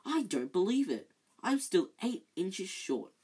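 mild furious outburst. Acted. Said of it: "said Ron furiously".

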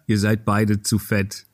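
slow, low machine voice; judging robot mirror, slow; old speech synthesizer. Pretend. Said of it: "der Spiegel sagt dann immer".

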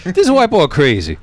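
high mock Black American accent; put-on Black voice. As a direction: drop into an exaggerated African American aside. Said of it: "too much black guy voice".

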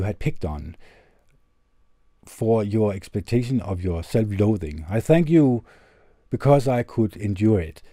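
lightly performed letter reading, earnest and measured; reading a heartfelt letter aloud. Acted.

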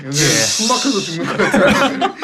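choked, suffocating heatstroke voice; dying voice. Acted. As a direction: gasp it like you're dying of heat. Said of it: "타 죽어가는 목소리를 하면 됩니다".

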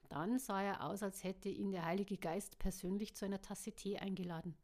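steady audiobook reading with voiced characters; story narration. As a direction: read it like an audiobook. Audiobook reading before own chat.

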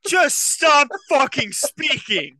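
slow, loud words broken by laughter; begging him to stop through laughter; high, dragged-out laughing plea. Real, not acted. Reacting to absurd story.

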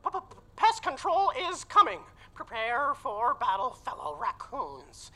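loud, high rallying shout to the troops; battle cry. Acted. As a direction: rouse the fellow raccoons for war.

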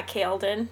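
"Kaladin" said as KALE-dun; spelling pronunciation. Shown as a demonstration. Reader guesses from the spelling, "Kaladin" as KALE-dun. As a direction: say "Kaladin" with a long A, two syllables. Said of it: "just looking at it".

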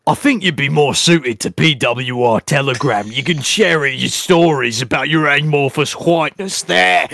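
put-on voice, breaking into a laugh at the end; Hemi. Host doing Hemi dismissing Chad, in a mimicking voice. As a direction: imitate him pompously, laughing on the last word. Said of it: "Who likes my Hemi impression".

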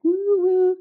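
high whooping cheer; party cheer. Retold or imitated.

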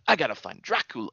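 lightly mocked British accent; a half-hearted go at a British accent; attempted British accent. Host mocking actor's Dracula line, faint British accent. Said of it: "you know, with an accent".

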